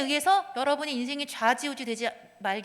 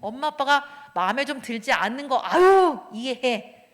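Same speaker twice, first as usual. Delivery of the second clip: put-on gently laughing child; 6 dB louder, slower than usual. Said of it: "어떻게?".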